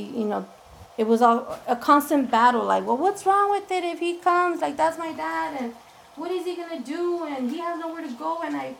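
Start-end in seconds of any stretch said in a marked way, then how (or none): 2.9-8.7 raised pleading voice, much higher; teen pleading her case, pitched up high. Retold or imitated. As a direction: beg mom to let dad stay. Pleading with mom for dad.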